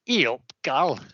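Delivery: put-on broad Yorkshire accent. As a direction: say it in thick Yorkshire. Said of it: "my best Yorkshire accent there".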